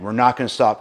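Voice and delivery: rallying shout. Retold or imitated. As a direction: drive the men up the beach with it. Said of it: "And so he would say".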